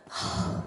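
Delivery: long voiceless exhale; exasperated sigh. Retold or imitated. Struggling with the job until irritation rises, exasperated sigh. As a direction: sigh out mounting frustration.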